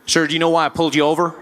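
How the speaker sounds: lightly voiced American officer, measured; American policeman. American policeman questions pulled-over driver, measured officer voice. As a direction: question formally, then drag it out. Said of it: "Policeman walked up to my window".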